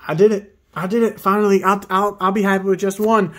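loud, high cheer of victory; celebrate, you finally did it; triumphant. Real, not acted. Celebrates finally pulling a shiny.

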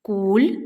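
"Кулька" broken in two, куль, pause, ка; split into syllables. Shown as a demonstration. Teacher counting syllables for children, "Кулька" split as куль-ка. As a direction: say "Кулька" syllable by syllable with a clear gap. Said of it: "скільки тут складів взагалі".

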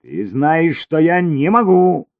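high and loud, snapped out; barked. A narrator's reading. Cesare barks at Elina in a loud angry voice. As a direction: bark it at her. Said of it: "рявкнул Чезаре".

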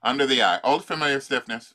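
normal talking voice

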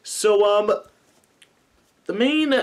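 a hint of prim cartoon baby; Stewie voice. Shown as a demonstration. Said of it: "today we're doing Stewie".

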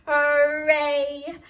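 loud happy cheer; cheerful shout. Pretend. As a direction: shout hooray with the kids.

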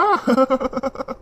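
short chuckle trailing off; light indulgent laugh; amused laugh. Acted. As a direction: laugh fondly at your sister. Brother amused by sister's news.

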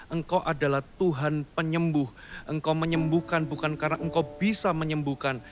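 ordinary delivery

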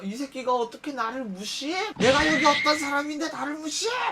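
imitated tirade, rising into a high shout; retold drunken rage. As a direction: act out an outraged customer blowing up. Drunk customer rages at being ignored.

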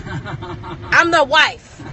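drawn out through a laugh; slow amused laugh-through line. Real, not acted. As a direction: laugh while saying it slowly. Laughing at own joke.

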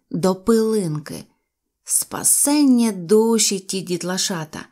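ordinary delivery

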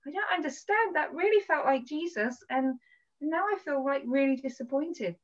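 lightly acted plaintive confusion; retold tearful complaint. Speaker retelling a tearful talk to a friend, mildly plaintive. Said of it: "I'm crying".

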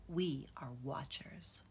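slow hushed whisper. A narrator's reading. Uncle teaching the cubs, slow whispered refrain. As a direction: breathe the refrain like a secret.

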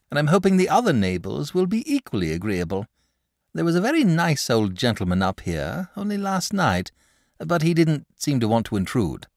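lifted, chatty dragon voice; a sociable creature making friends; friendly dragon. Acted. Dragon praises the boy's culture, lifted voice.

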